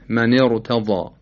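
slow من ارتضی with a thick r; heavy ra. Shown as a demonstration. Teacher giving an example, heavy r in من ارتضی. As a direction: recite من ارتضی, r full and heavy. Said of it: "باید تفخیم بشه".

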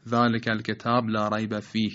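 الكِتَابُ said as الكتاب with a silent final ب, run straight into لا ريب; وصل به سکون، نادرست; wrong: joined with sukun. Shown as a demonstration. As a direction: drop the final vowel yet keep going, the faulty way. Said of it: "وصل به سکون درست نیست".

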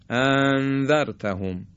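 انذرتهم with the hamza blurred into the next sound; hamza run together, wrong. Shown as a demonstration. Teacher demonstrating a connected, wrong hamza. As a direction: slur the opening of انذرتهم together. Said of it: "به هم دیگه وصل کنیم".

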